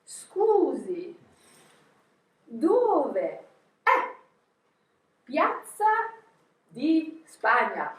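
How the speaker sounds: jumping out, slow and emphatic; excited performed question. Shown as a demonstration. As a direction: stretch each word out like a show. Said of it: "And I jumped out and I said".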